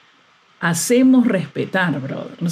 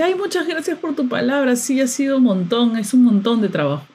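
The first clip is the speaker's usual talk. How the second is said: mocking his reply; 3 semitones higher than usual. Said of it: "me escribe y dice".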